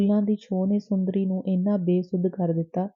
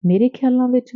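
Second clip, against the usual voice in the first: higher, louder, hitting ਖਿਆਲਾਂ in amazement; astonished repeat; 6 semitones higher, 4 dB louder than usual. A narrator's reading. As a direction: repeat it, truly taken aback. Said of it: "ਹੈਰਾਨੀ ਵਾਲਾ ਮੂੰਹ ਬਣਾ ਕੇ ਦੁਹਰਾਇਆ". (ਉੱਚੀ ਹੈਰਾਨੀ ਨਾਲ ਦੁਹਰਾਓ, ਖਿਆਲਾਂ 'ਤੇ ਜ਼ੋਰ)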